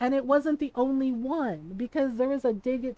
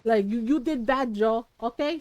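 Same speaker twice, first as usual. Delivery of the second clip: Filipino mother. Retold or imitated. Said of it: "my mom was like".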